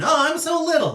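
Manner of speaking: high, tiny, cutesy voice; small voice. Retold or imitated. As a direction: squeak it out like someone tiny. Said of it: "I was just like".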